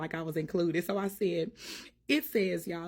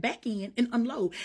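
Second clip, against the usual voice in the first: God's call to unload, pitched up and pushed harder; louder preached command; 4 semitones higher than usual. Retold or imitated. God insisting to Mel, a louder preached command. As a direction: preach it home, higher and louder. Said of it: "he said".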